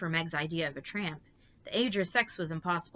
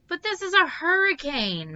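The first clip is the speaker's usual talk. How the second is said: high, loud frightened wail; 12 semitones higher, 10 dB louder than usual. A narrator's reading. Meg wails to her mother about the hurricane, high and loud. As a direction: wail it out, scared of the storm. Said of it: "Meg wailed".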